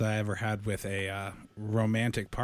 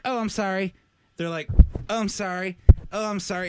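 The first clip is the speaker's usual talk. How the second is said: mock nervous nurse; 7 semitones higher, 7 dB louder than usual.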